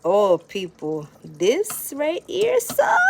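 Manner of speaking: drawn-out, high and loud Jamaican delight; excited showing off. Real, not acted. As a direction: Jamaican cook proudly gushing over her curry chicken. Showing off the finished curry.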